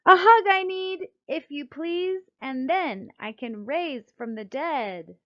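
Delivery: high, loud plea fading into a slow drawl; a cuddly creature begging for a hug; sleepy Schlump asking. Acted. The Schlump in bed asking friends and Mom for a hug, high pleading then slow. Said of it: "one of them said".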